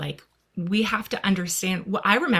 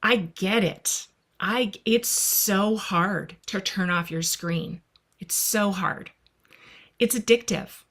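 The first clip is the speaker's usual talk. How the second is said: a mom calmly soothing her son about his screen; calm and gentle. Retold or imitated. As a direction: ease into it like you've just taken a breath. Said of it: "I just took a breath".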